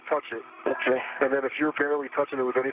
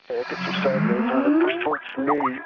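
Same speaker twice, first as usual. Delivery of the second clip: calling out; 10 semitones higher, 4 dB louder than usual. Real, not acted. Calling out to crewmate.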